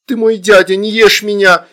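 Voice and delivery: put-on high, loud child's plea; pleading. A narrator's reading. Girl begs uncle demon for mercy, pleading. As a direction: beg in a high, urgent voice. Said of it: "взмолилась Астрид".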